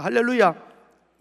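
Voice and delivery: a long, slow, shouted hallelujah; loud hallelujah. Real, not acted. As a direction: lift the church with a slow cry. Preacher's acclamation.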